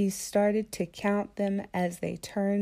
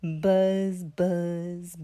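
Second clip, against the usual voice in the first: bee buzz; 5 dB louder than usual. Acted. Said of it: "I'm a bee".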